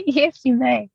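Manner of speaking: high, laughing reply; giggle, then grant permission in a high voice; giggly consent. Real, not acted. Coy reply to request for news.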